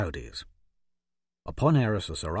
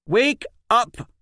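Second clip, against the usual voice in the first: high, loud furious yell; 13 semitones higher, 7 dB louder than usual. A narrator's reading. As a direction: scream it in his face. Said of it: "she yelled".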